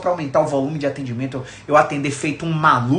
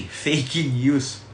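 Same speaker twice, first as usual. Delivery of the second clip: laughing; 3 semitones lower than usual. Real, not acted. Laughing at own joke.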